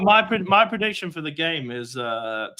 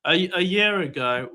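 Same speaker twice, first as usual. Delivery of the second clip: slow, deliberate restart; speaking slowly; slower than usual. Real, not acted. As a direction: spell it out slowly for impatient listeners. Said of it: "I'll speak slowly".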